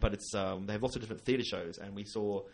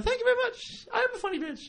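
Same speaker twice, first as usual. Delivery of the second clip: much higher, laughing thank-you; mock gracious thanks; 4 dB louder than usual. The speaker thanking the drunk woman, high and laughing. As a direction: accept the insult with camp delight. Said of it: "And, uh".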